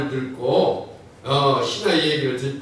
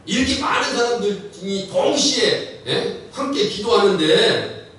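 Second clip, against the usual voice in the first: pitched-up retold protest; earnest protesting congregant; 4 semitones higher than usual. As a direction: act out a man pleading his case. Acts out congregant's protesting answer. (항변하는 성도 흉내)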